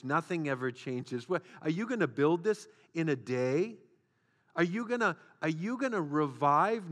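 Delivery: scornful, jeering taunt; mocking Satan. Preacher voicing Satan's discouragement, scornful mockery. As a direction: taunt them that nothing changes. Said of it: "Satan will come along and say".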